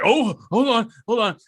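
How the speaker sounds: mock excitement. Podcaster imitating a man getting a big call, mock excited. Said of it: "he gets really excited".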